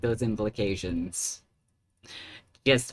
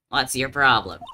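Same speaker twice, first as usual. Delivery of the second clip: angry retort; 3 semitones higher, 7 dB louder than usual. Acted. Reporter snapping at the detective.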